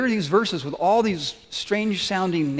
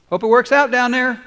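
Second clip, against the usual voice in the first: distant God; 6 semitones higher, 7 dB louder than usual. Pretend. God imagined watching from afar.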